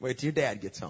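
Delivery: put-on cocky voice, smiling. Retelling a mother's warning about dad coming home: imitating a cocky-smiling mother. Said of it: "with kind of a cocky smile".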